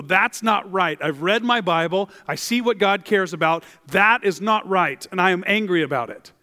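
righteous anger. Acted. Acted righteous outburst at injustice.

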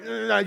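imitated buzz of getting shocked; mock jolt from a power outlet; electric shock noise. Preacher acting out grabbing a power outlet, imitated shock noise. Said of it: "just getting shocked".

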